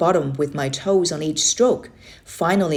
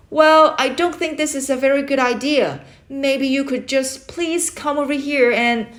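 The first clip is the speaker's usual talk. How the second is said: anxious plea; 8 semitones higher, 3 dB louder than usual. Acted. Boy pleads before being cut off.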